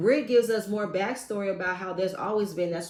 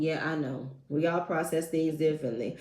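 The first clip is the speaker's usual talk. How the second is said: monotone; 4 semitones lower than usual. Retold or imitated. Older sister brushing off the call, monotone. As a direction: drone it without feeling. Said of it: "The sister is so monotone".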